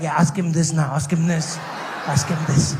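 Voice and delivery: pushy loud urging; egging her friend on, loudly. Retold or imitated. Surfer girl urging friend, shouted.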